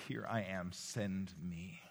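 soft, hushed prayer; quiet prayer. Shown as a demonstration. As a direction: pray it gently as your own. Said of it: "Let's make that our prayer".

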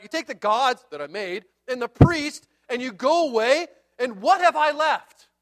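rising protest, slowing at the end; aggrieved complaint. Retold or imitated. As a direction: plead the case of a robbed man. Micah's aggrieved complaint, acted out.

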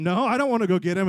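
loud, balking protest; hammed-up squabbling comeback; insistent refusal. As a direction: dig in and refuse loudly.

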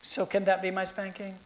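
put-on hushed, hopeful little girl asking; whispered child plea. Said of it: "She said".

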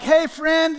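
bright, loud hey to a friend; cheery greeting. Pretend. Pastor acting a happy greeting at the store. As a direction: greet a pal with a lift.

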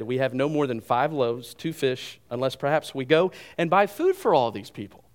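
mildly sarcastic disciples' retort; understated sarcastic protest; a touch of sarcasm. Acted. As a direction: read it back with slight sarcasm, building toward the end. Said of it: "a little sarcasm there".

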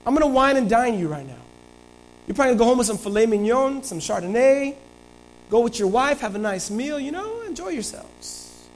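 lightly voiced king buttering up his soldier; smooth-talking David. Preacher voicing David sweet-talking Uriah, lightly coaxing.

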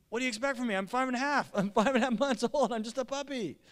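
high puppy voice pleading innocence; doggy voice. Pretend. Puppy Lucy answering her owner in a high doggy voice. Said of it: "in her doggy voice".

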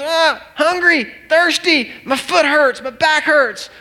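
high-pitched toddler tantrum imitation; hammed-up childish screaming complaints. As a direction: wail each complaint like an upset three-year-old. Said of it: "He goes".

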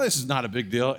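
offhand, rising and unconcerned; easy confidence before the storm; casual dismissal. Retold or imitated. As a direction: shrug it off lightly. First haboob, contrast with realisation.

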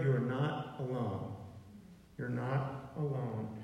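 slow reassurance. Real, not acted. Reassuring the congregation, repeated.

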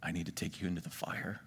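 low, soft, solemn questioning; voice of Holy Spirit. Acted. God calling a would-be prophet into the fire, hushed and solemn. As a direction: speak low and gently, with long pauses. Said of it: "And the Holy Spirit says".

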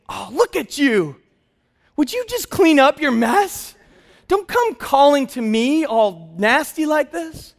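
mock disgusted dad turning the child away; disgusted scolding. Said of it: "I didn't say".

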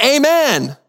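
a high, urgent mock yell of the word. Rider at the cliff edge yells to stop the horse, high and urgent. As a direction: call it out in a panic at the cliff edge. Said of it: "he yells out".

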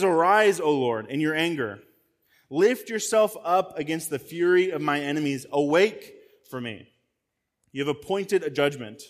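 declaiming the psalm, opening strong on arise; scripture reading. Acted. Preacher reading the psalm to the congregation, solemn. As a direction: read the verses as a solemn plea. Reads psalm verses aloud.

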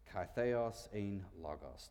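Kai theos ein logos read out slowly; slow careful Greek reading. Shown as a demonstration. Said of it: "it says this".

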